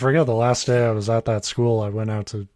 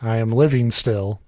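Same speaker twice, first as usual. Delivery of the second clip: even, measured reading voice; story read aloud. A narrator's reading. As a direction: read the written story out plainly. Reads a written story aloud.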